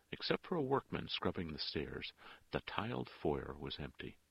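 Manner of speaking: ordinary delivery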